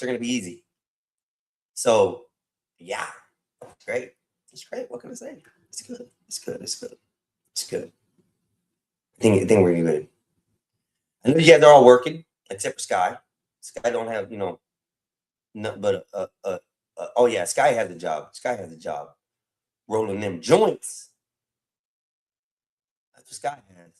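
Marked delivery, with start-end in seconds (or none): 4.5-7.9 tiny high-pitched soft voice; airy falsetto repeating itself; high squeaky mock voice. 19.9-21.1 slow drawn-out tease. Acted. Joke about Sky.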